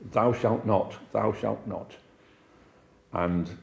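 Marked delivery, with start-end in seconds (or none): 0.1-1.9 a hint of a stern deacon, measured and even; lightly voiced strict old churchman laying down the law; stern hardliner. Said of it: "I mean he was a hard line".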